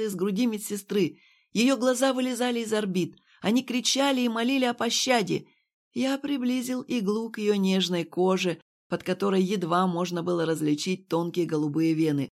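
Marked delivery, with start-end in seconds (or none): none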